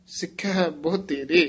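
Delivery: ਸਿੱਖਿਆ said tight and firm. Shown as a demonstration. Teacher asks for ਸਿੱਖਿਆ spoken firmly, then pauses. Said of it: "ਸਿੱਖਿਆ ਕੱਸ ਕੇ ਬੋਲਣਾ".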